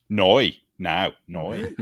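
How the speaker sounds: Noi with a round oi glide, now plain beside it; Northern Irish no. Shown as a demonstration. Showing the weird Northern Irish no sound. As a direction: say Noi the Belfast way. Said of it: "the weird N O sound".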